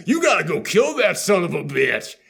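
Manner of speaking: hammed-up gruff order; mock aggressive shout. Dying dad ordering his son, mock aggressive shout. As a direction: bark it like a half-hearted tough guy. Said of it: "so aggressive that it comes off almost casual".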